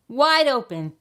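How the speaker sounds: high, loud yelled order. A narrator's reading. Dentist's wife ordering the fox, yelling. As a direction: shout it up at the fox. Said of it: "yelled his wife".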